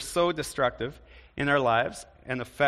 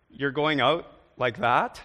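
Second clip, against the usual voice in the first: disapproving tone; 4 dB louder than usual. Shown as a demonstration. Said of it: "I've heard that tone".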